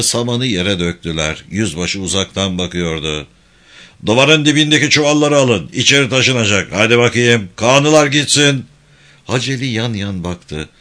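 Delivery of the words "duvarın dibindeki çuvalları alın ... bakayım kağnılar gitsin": officer's loud, brisk command; loud military instructions; barked orders. Acted. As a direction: order the men about firmly, voice raised. Officer ordering soldiers to work.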